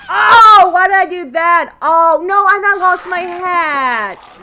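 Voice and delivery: high, loud wail; loud dismay. Real, not acted. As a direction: moan it, the hat is gone. Loses hat, dismay.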